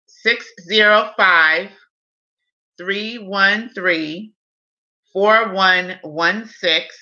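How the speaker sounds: each digit said slowly and clearly; slow dictation. Real, not acted. Dictating phone number.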